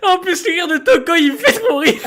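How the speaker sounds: high, crying with laughter; tears of laughter; laughing. Real, not acted.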